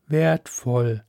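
drawn-out alien calm; alien sea voice. Acted. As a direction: speak as a vast ocean mind, unhurried. Alien sea mind speaks.

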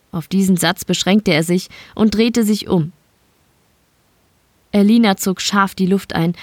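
ordinary delivery, nothing marked

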